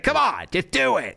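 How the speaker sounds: a light mock of a pleading woman; pushy woman. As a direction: coax him, teasing. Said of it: "She's like".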